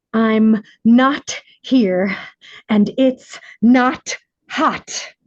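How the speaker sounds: put-on a small boy insisting, word by word; little boy in denial. Little boy denying in hell.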